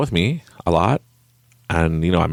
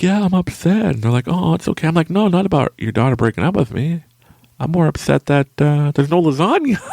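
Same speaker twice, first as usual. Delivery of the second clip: higher, louder mock-aggrieved complaint; mock upset; 11 semitones higher, 3 dB louder than usual. Tells her parents he misses lasagna, louder mock outrage, laughing at the end. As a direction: play up the outrage over the lasagna.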